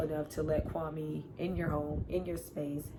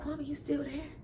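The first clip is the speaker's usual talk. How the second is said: calling out to Kwame; 10 semitones higher, 4 dB quieter than usual. Retold or imitated. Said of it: "It's like".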